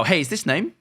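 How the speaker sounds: "Hey, is this name?" ending on a rising, questioning lift; upward inflection. Shown as a demonstration. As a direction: let "name" rise up like a question. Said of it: "you're gonna have that upward inflection".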